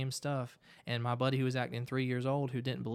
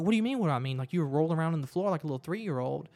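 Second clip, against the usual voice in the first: louder, higher, incredulous comeback; retold disbelief; 3 semitones higher, 5 dB louder, much faster than usual. Friends confronting him after his tantrum, mock incredulous. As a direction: throw the question back, exasperated.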